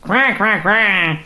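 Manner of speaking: a hint of quacking duck. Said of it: "J'aime bien faire le canard".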